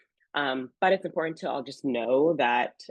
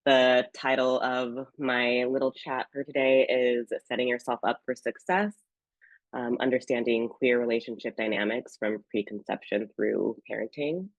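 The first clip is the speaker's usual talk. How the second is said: sick voice. Real, not acted. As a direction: voice rough from a cold. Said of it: "as you can probably tell from my voice, I'm a little bit sick".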